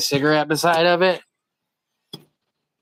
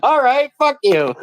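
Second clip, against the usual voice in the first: mock fighter; 9 semitones higher than usual. Voicing the attacker for the friend, a slow high snarl. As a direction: spit it out like the guy about to swing.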